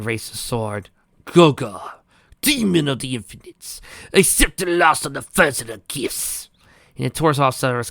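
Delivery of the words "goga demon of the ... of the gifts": slow incantation in another voice; ritual invocation. Acted. Divine invoking the demon over the victim. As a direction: intone the offering.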